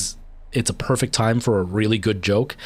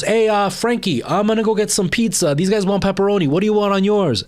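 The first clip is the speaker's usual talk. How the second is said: much higher and louder, a goofy casual pizza-run voice; drummer heckling; 10 semitones higher, 3 dB louder than usual. Retold or imitated. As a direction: play the drummer breaking the scene with a silly high voice. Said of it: "And he goes".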